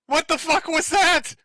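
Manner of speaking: high, slow incredulous question; stunned disbelief. Real, not acted. Streamer reacting to the horse-noise clip, stunned and incredulous. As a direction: drag it out in utter disbelief.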